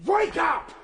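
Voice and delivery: a high, loud yell to wake them; calling out to the sleeping Eloi; loud rousing shout. Acted. Traveller rouses sleeping Eloi.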